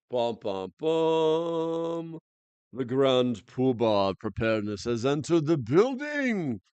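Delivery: put-on slow, grand announcer in a made-up Russian-ish accent; hammed-up mock Russian entrance. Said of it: "I just made up this accent".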